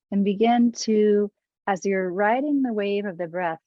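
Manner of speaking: unhurried guiding voice with long pauses; guided meditation. Acted. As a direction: ease listeners gently into the breath practice.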